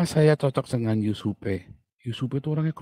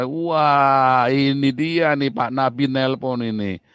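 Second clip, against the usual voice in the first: teasing boss; 6 dB louder, much slower than usual. Retold or imitated. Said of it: "Si konglomerat ini nelpon".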